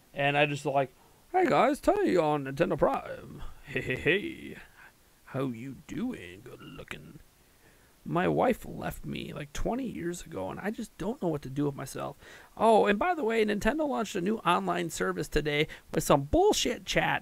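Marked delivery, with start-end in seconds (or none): 1.3-17.2 put-on changed stuffed-animal puppet voice. Voicing a stuffed animal held up to the camera: changed voice for stuffed animal. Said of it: "I change my voice".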